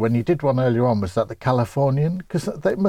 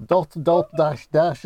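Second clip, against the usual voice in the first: Morse code in an attempted Brummie accent; higher, tentative Birmingham accent; 3 semitones higher, slower than usual. Shown as a demonstration. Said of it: "dash be in a Birmingham accent?".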